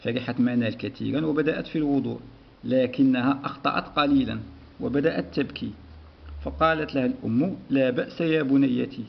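measured read-aloud of a lesson text; teacher reading a story to the class. Acted. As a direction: read the passage clearly for pupils.

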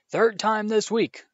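loud, slow furious roar. A narrator's reading. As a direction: roar it across the table, slowly. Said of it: "he roared across the table".

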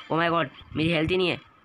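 panicked gamer. Real, not acted. Losing fight, panicking over health.

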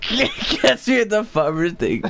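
laughing. Real, not acted. Repeating joke while laughing.

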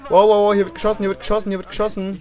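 loud, high alarm fading down; loud shout settling over repeats. Real, not acted. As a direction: warn everyone of gunfire. Alarm at gunfire in game.

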